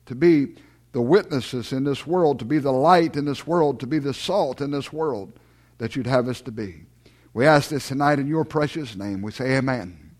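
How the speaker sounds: low, measured praying voice; public prayer. Real, not acted. Pastor closing prayer with the congregation, low measured praying. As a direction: pray in low, evenly spaced phrases.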